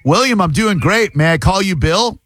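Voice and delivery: high-pitched, over-friendly greeting; put-on friendliness. Prankster chatting up a telemarketer, put-on friendliness. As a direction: greet the caller like a new pal.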